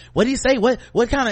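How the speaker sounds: puzzled, hands up in confusion; confused coworker. Retold or imitated. Coworkers on mute asking about the caller, baffled. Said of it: "look at me like".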